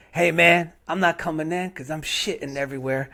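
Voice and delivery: lightly voiced old man phoning in sick; older man calling in. Chef calling the restaurant to say he's sick, lightly voiced old man. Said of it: "only way an old black guy can call in".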